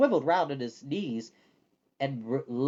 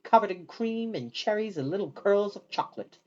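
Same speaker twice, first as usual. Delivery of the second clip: usual speaking voice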